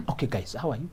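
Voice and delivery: low-energy, soft hello; subdued, softly spoken arrival; stressed, ghostlike greeting. Acted. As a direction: greet them like a drained ghost. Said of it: "you walk in like a ghost".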